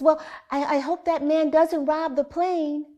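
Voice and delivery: lightly voiced little boy, matter-of-fact; small boy repeating. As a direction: son repeating himself to his mother, lightly voiced child. Son repeats his remark.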